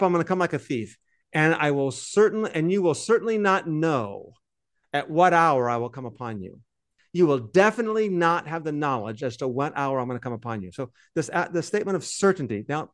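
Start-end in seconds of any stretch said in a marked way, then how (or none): 0.0-6.6 reading scripture aloud. Shown as a demonstration. Reading his translation to the co-host, solemn and deliberate. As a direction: read it out like a solemn verse. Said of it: "I'm just gonna translate this on the fly myself".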